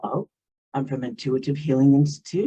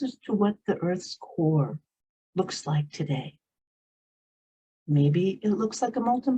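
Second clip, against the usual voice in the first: unhurried meditation guide with long pauses; guided meditation. Real, not acted. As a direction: lead them gently inward, leaving space between phrases.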